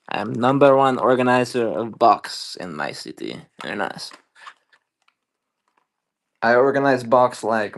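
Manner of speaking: put-on lightly done Borat accent; a hint of Borat boasting. To viewers about his box, a light Borat accent.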